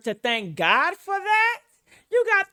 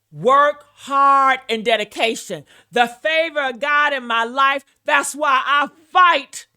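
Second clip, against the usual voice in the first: loud mock speech; 4 dB louder than usual. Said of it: "That's what she just said".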